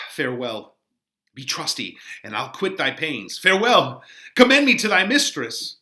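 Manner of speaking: lightly voiced young lover Romeo; Romeo reading. Teacher reading Romeo to the class, lightly acted. Reads Romeo's lines aloud.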